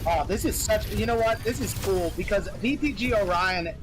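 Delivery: esports caster voice; play-by-play casting. Acted. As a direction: call the match live.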